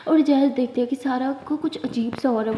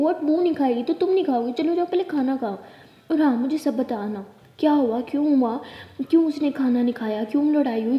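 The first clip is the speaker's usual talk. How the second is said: louder, scolding elder sister; 5 dB louder than usual. Acted. Siya scolding Tara for skipping breakfast, loud. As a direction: scold her firmly, demanding answers.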